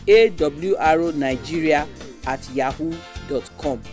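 email address read slowly; slow dictation. Shown as a demonstration. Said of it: "Make I take am again".

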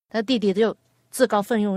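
usual speaking voice

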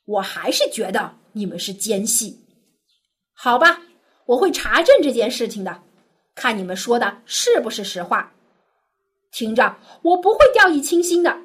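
severe and unyielding; laying down his terms, not giving an inch; stern. Acted. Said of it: "约瑟还是非常严厉". (严厉地说)

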